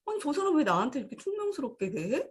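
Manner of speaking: lightly acted, put-out complaint; mock indignation. The other person reacting to being treated curtly, mildly indignant.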